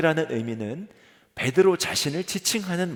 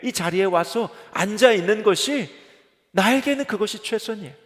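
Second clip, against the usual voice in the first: pleading congregant; 3 semitones higher than usual. Acted. Congregant's plea voiced by pastor.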